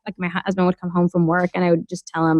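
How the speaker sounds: ordinary delivery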